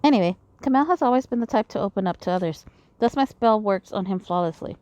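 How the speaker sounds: reading visual novel dialogue aloud; lightly acted character lines; game story read in character; voicing game characters. Voices game dialogue between characters.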